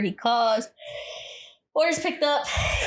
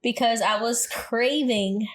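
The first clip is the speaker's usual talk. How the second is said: craving drawn out slow and leaned on; slow, heavy weight on "craving"; stress on craving; 2 semitones higher, slower than usual. Shown as a demonstration. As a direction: lean into "craving", stretching it. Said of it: "emphasis on craving".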